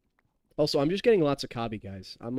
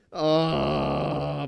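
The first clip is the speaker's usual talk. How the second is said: drawn-out "oh" of suffering; long disgusted groan. Real, not acted. Streamer just downed a bad shot, groaning. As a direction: groan it out long after a nasty swallow.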